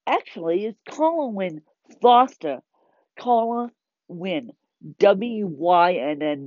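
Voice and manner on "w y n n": W Y N N, each letter spelled slowly. Shown as a demonstration. Spelling her name for viewers, slowly letter by letter. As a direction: spell out W Y N N clearly, one letter at a time. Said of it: "not W I N like me".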